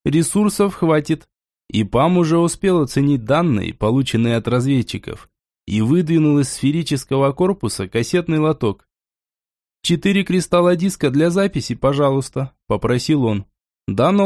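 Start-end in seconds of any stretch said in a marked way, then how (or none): 0.0-1.3 put-on old speech synthesizer. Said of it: "Он задействовал синтезатор речи". 9.8-12.5 put-on old speech synthesizer. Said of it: "Он задействовал синтезатор речи".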